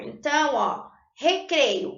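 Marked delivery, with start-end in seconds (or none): 1.1-2.0 "recreio" slowly with a strong throaty R at the start; strong initial R. Shown as a demonstration. Teacher modelling the strong initial R, slow and clear. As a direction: draw out "recreio" leading with the guttural R. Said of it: "Eu vou falar um R forte no começo da palavra".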